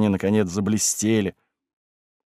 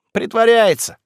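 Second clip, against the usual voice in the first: sharp, cutting jab, pitched higher; ruthless remark; 11 semitones higher, 5 dB louder than usual. A narrator's reading. Galka jabs at Stepanida, ruthless and sharp. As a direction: say it without pity. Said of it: "безжалостно сказала Галька".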